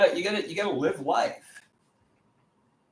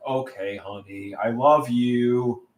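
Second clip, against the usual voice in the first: meek giving in; slower than usual. Pretend. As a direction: give in sweetly to the bossy girlfriend.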